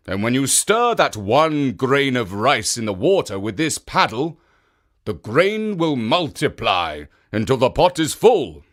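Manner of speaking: the demon master explaining the magic paddle; slightly bigger, commanding Oni voice; Oni ordering. Acted. Oni gives the old woman orders.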